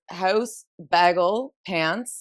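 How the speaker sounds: "House, bagel, pants" set apart, each rising; word-list demo. Shown as a demonstration. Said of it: "There's a variety of words".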